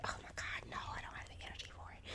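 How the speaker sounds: quick, whispery mock giving-up; imitating your own worn-out self under the breath; retold weary refusal. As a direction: drop to a fast, drained whisper. Acts out giving up on idea.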